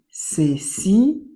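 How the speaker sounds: ceci whispered without voice. Shown as a demonstration. Teacher repeating ceci to pupils in a whisper. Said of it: "reading word twice, second whispered".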